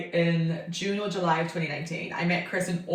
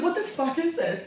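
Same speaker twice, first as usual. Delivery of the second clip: laughing disbelief; 8 semitones higher than usual. Retold or imitated. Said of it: "I was like".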